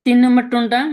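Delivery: তিন নম্বর টোনটা said high and loud. Real, not acted. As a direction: call out to get attention.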